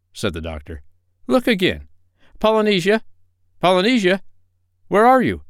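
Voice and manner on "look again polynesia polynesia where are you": much higher, louder calling out. Acted. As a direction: call her name into the dark. Doctor calling for parrot.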